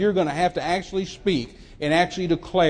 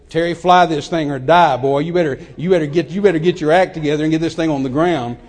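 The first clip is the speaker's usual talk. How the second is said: loud, urgent order to himself; urgent self-scolding; 7 dB louder than usual. Retold or imitated. Pilot to himself in trouble in the air, loud urgent scolding. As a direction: bark a retold pep talk at yourself.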